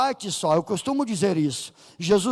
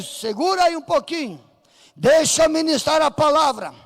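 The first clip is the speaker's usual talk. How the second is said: mock urgent call; 4 semitones higher, 3 dB louder than usual. Peter interrupts the tongues.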